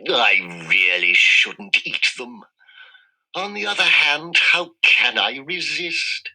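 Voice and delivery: a lightly voiced greedy fox; fox savoring. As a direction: purr over the new tooth.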